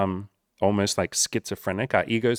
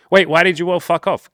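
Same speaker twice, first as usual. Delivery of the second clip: higher, louder mock wail; whiny bewildered cry; 8 semitones higher, 10 dB louder than usual. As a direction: wail it like an abandoned sulker. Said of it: "immediately saying".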